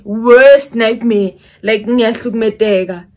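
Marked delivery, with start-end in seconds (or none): 0.0-1.3 slow drawn out. Real, not acted.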